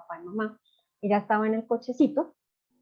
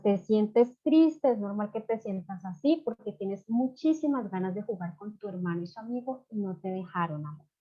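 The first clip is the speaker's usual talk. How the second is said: tender. Shown as a demonstration. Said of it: "hay que explicar el por qué".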